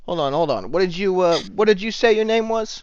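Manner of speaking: high-pitched, baffled interruption; taken aback. Acted. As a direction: pitch climbing in disbelief as you halt them. Lieutenant taken aback by demands.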